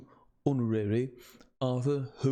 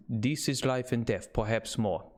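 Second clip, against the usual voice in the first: put-on Dutch accent. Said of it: "German, yeah".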